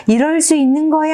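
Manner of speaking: high-pitched mock scream, held back in volume; acted yell. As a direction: cry out high like an outraged girl in a story. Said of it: "또 소리를 지릅니다".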